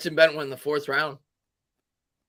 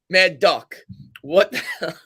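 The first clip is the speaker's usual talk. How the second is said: mock indignation; 5 semitones higher, 6 dB louder, slower than usual. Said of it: "I'm gonna read the rest".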